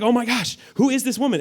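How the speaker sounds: high, keyed-up astonishment; hammed-up starstruck reaction; smitten surprise. Acts smitten Boaz seeing Ruth.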